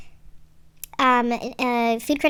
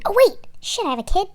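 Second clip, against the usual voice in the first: mock absent parent; 8 semitones higher than usual. Voicing absent parent remembering.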